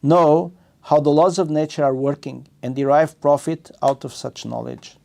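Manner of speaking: measured, deliberate scripture reading; reading aloud. Acted. Teacher reading scripture commentary to students, measured read-aloud. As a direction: read it out phrase by phrase, stressing key words.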